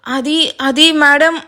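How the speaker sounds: slow, halting stammer; hesitant stammering reply. Acted. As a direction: fumble the words nervously. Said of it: "తడబడుతూ".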